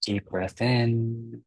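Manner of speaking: unhurried meditation guide with long pauses; calm guiding voice, softening and slowing towards the breaths; guided meditation. Acted. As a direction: ease them gently into relaxing, leaving space between phrases.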